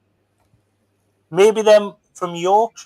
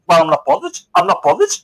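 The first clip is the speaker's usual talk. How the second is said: higher, protesting "I'm not bothered" again and again; mock denial; 6 semitones higher, faster than usual. Mocking a sulky singer who insists she's not bothered, higher mock denial. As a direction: overplay the insistence that you don't care. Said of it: "it's like going".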